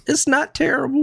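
high-pitched mock white girl. Teasing the white girl about how bad the place is, mock white girl. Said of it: "ask the white girl".

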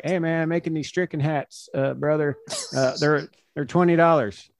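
selling hats like an easygoing teammate; Josh Hader impression. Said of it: "your Josh Hader impression".

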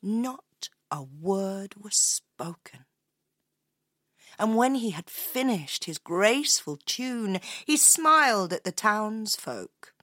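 slow, spellbound storyteller; story narration. A narrator's reading. Telling how the piper charmed the square, hushed wonder. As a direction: linger on each phrase as the music enchants.

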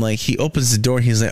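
ordinary talk

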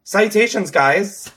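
overdone formal greeting; mock posh greeting. Shown as a demonstration. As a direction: greet them like a pompous butler. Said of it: "how incorrect that felt".

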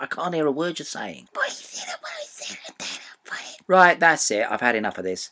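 mock whisper throughout. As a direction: whisper the complaint as a joke. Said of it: "no good just whispering like that".

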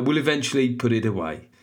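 put-on Birmingham-accented review reading; Brummie accent. Listener signing off her review, Brummie accent. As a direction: finish the note in Brummie. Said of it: "it's gonna be a Brummie accent".

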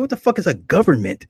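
high, loud incredulous question; baffled. Retold or imitated. Man asked for his government, baffled loud reply. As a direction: throw it back in total confusion.

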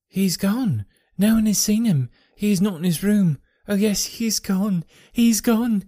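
high, loud and wild; a maid on the edge of breaking into hysteria; hysterical. A narrator's reading. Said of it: "shriek after shriek of laughter".

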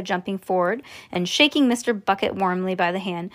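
plain reading voice

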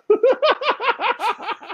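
high burst of laughter; real laugh. Real, not acted. Watching his dog sit on the chair arm, real high laughter.

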